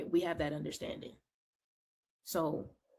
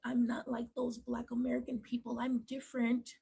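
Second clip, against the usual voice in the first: higher-pitched mimicry of a complaint; mock whining; 7 semitones higher than usual. Speaker mimics people crying for acceptance, mock whining. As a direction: imitate someone pleading to be set apart. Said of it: "cry about not being accepted".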